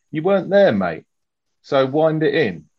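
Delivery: a mock Cockney retort; Cockney accent. Officer answering later politician, in a mock Cockney accent. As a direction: jab back in a Cockney accent, mate. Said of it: "How's, how's that for a Cockney accent?".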